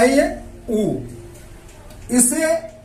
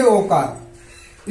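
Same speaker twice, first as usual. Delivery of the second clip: ओकार stretched very slowly; slow drawn-out answer; 4 semitones lower, much slower than usual. Shown as a demonstration. Teacher drawing out ओकार slowly as the answer. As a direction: hold ओकार long so pupils repeat. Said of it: "इसे क्या कहेंगे".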